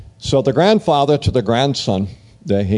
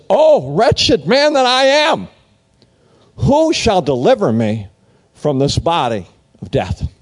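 much higher, slow lament of despair; anguished cry; 5 semitones higher than usual. Retold or imitated. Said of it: "the Apostle Paul cries out".

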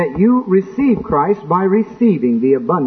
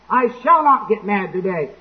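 controlled resolve; 3 semitones higher than usual. Acted. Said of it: "And then he finally hollers and screams".

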